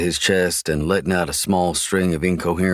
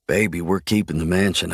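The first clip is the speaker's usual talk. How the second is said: soothing. Acted. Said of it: "I rub slow circles".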